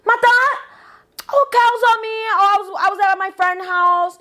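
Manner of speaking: high, innocent voice making excuses; high mock-innocent excuses; mock innocent girl. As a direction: play the sweet little liar. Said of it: "And she's like".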